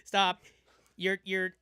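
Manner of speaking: loud, high panicked robot; victim robot. Pretend. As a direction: beg like a robot in pain. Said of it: "And now the robot's the victim".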